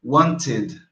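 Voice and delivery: "wanted" in two syllables, wan-tid. Shown as a demonstration. Teacher contrasts the case, "wanted" said wan-tid. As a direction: sound out the final syllable of "wanted". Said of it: "aqui tá bem pronunciado isso aqui".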